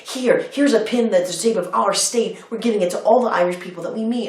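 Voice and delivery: high-pitched mock eager tourist; insistent old lady. Old tourist handing out state pins, high insistent imitation. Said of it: "did not give me a chance".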